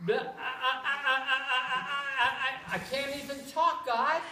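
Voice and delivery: light stutter on I, I, I; stutterer imitation. Moses imitated as a stutterer, lightly voiced. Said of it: "somebody goes like".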